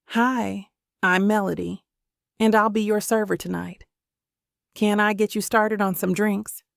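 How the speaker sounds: light, friendly Southern lilt; cute Southern accent. Acted. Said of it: "she asks in a cute Southern accent".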